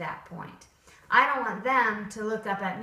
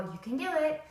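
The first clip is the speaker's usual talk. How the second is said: encouraging; 6 semitones higher than usual. Shown as a demonstration. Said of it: "encouraging face would come back out".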